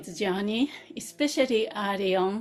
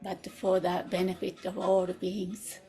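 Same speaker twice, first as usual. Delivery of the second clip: measured aspiration in short phrases with pauses; meditative prayer. Real, not acted. Teacher voices the group's motivation for all beings, meditative prayer. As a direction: recite a heartfelt intention, phrase by phrase.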